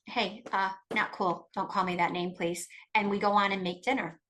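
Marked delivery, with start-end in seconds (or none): 0.1-2.7 calm and firm. Shown as a demonstration. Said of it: "Or do we say".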